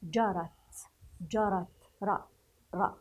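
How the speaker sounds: جرت with an open "ra"; fatha on the ra. Shown as a demonstration. Teacher shows opening the ra, fatha demo. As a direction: read جرت, then isolate the open syllable "ra". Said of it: "تفتح الراء".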